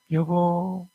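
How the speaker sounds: playful wife calling her husband to chase her; cutesy Seoul wife with fading 요 요; coy Seoul wife. Acted. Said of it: "서울 부부가".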